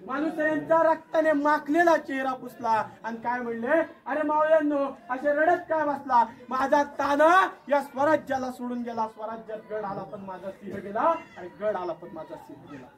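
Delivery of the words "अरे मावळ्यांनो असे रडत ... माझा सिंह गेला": king's sorrowful lament; grieving lament. Acted. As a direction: mourn a fallen lion. Shivaji grieves over Tanaji.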